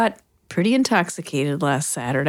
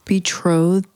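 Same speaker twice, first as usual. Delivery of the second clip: incredulous; 4 dB louder than usual. Real, not acted. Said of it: "Did you really just use that word?".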